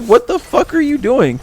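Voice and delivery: high-pitched mock alarm; imitated freaking out. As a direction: imitate a man protesting in a panic. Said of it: "He's, like, freaking out".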